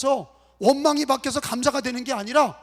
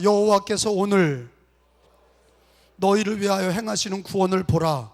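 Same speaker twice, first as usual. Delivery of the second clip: broken-up reading; 6 semitones lower than usual. Shown as a demonstration. Pastor leading congregation to follow along, broken into phrases. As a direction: split it after "오늘" for repeating. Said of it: "붙여서 읽읍시다".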